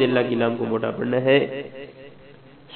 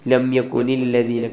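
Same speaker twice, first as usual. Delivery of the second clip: slow demo; slower than usual. Shown as a demonstration. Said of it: "تھوڑا سا لمبا کریں گے".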